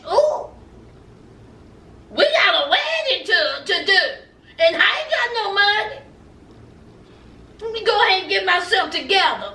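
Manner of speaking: half-crying fake panic over no money; panicked groom. Groom panicking about the wedding, mock whiny voice. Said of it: "now he thinks".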